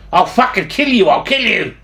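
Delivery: half-full retold yell; retold angry threat. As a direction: imitate a furious man threatening a stranger. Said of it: "Tony yelled at him".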